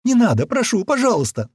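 high, loud tearful begging; high-pitched weepy entreaty; tearful plea. A narrator's reading. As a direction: beg desperately as a crying woman. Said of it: "заплакала женщина".

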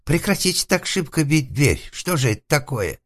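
high, loud, whiny alarm; frightened protest. Acted. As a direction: plead in a panicked high voice. Затворник пугается стука в дверь. (испуганный высокий вопль)

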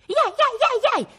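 very high, loud yapping; string of piercing imitated yelps; dog barking. A narrator's reading. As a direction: yap like a small dog chasing a fox. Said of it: "Non abbaiava più".

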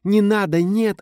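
high, loud desperate cry; shrill pleading scream; thin cry. A narrator's reading. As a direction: cry out high and frightened to stop him. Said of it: "С тонким криком".

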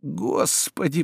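slow, soft moaned plea; a drawn-out groan to heaven. Acted. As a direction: moan it out in despair. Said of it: "простонал Обломов".

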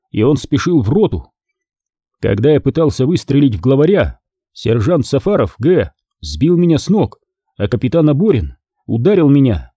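reading a clumsy official complaint; lightly voiced soldier's note. Battalion commander's letter read out in a soldier's voice.

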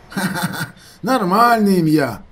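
laughing through the words, slow. A narrator's reading. Kocha laughing off the odd name. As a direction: chuckle out normal name. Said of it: "засміявся Коча".

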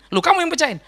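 put-on grandma questioning child. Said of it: "mama saya ada ditunjuk dia".

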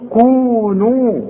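كونوا with both long vowels held equally; even madd. Shown as a demonstration. Teacher showing equal vowel lengths. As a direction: stretch each vowel the same length. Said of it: "لا تزود دي ولا تنقص دي".

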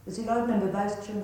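angry interrogator shout. Acted. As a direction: shout the accusation at the suspect. Verhör, Anschreien des Verdächtigen. (wütend anschreien, viel höher und lauter)

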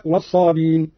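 الصابين run smoothly from b into long i; dropped hamza. Shown as a demonstration. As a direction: say الصابين as "as-sabin", no glottal catch. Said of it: "بحذف الهمز تخفيفا".

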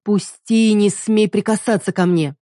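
wife ordering husband to let go; angry demand. Acted. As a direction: warn him off. Heroine pulls away.

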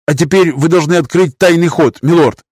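put-on high, trembling old man's voice; quavering voice. A narrator's reading. Master defies lord in a quavering high voice. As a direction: let the voice rattle and shake. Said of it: "master's voice".

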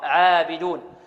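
عابدون with a thin, fronted عا; clean, unthickened عابدون; corrected light pron. Shown as a demonstration. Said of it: "خطأ".

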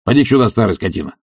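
a hint of an impatient master's call; lightly voiced bully calling out. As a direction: bark for the old servant. Tarantyev calls Zakhar rudely.

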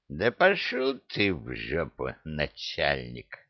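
low, lazy brush-off; rude dismissive djinn. Acted. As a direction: wave him off from inside the bottle.

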